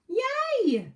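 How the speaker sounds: high, bright little cheer; excited yay. Real, not acted. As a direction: let the excitement pop out. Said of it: "Can you tell I'm excited?".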